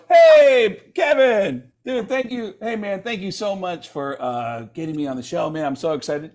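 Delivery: high, gushing eager thanks; a hint of fanboy eagerness; overeager fan. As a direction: gush at him like a starstruck fan. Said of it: "I would go".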